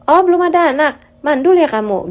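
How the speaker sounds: high, loud mocking jab; mocking gossip. Neighbour mocks a childless woman, loud sneering jab. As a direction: sneer at her like a nosy neighbour.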